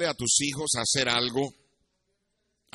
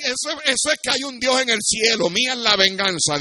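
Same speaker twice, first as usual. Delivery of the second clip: mock triumph; 6 semitones higher, 8 dB louder than usual. Real, not acted. Preacher punchline on revenge.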